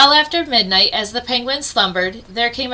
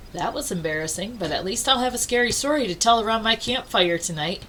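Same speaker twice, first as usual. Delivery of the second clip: thinking to himself; 5 dB quieter, faster than usual. Acted. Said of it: "he thought to himself".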